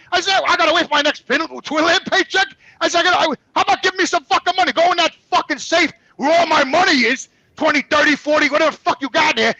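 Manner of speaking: re-living the fight with his wife, fired up; replaying an angry argument with his wife; retold angry rant. Retold fight with wife over money.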